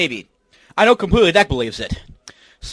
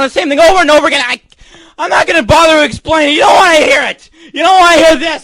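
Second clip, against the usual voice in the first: angry rant; 5 semitones higher, faster than usual. Real, not acted. Ranting angrily at viewers.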